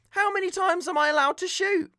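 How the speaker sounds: high exasperated mock yell; shouting back. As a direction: yell it in frustration. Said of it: "So I shout back".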